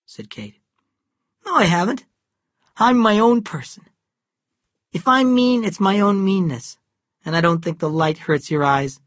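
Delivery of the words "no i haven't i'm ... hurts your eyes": high, loud, heated defiance; defiant outburst. Acted. Cal defies his mother, heated and loud. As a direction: throw it back at her, rising in anger.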